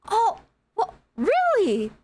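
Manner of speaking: put-on high, sweet, touched old-guy voice; soul-meltingly nice. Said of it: "soul-meltingly nice, happy way".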